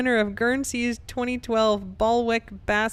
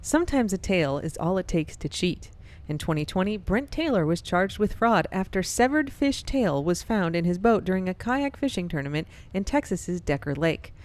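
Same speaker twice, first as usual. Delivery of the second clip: radio voice; 2 semitones lower than usual. Shown as a demonstration. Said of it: "like, radio voice".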